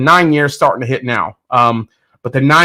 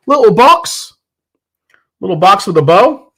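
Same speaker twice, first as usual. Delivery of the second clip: cute excitement; 6 semitones higher, 4 dB louder than usual. Real, not acted. Showing off the sample box.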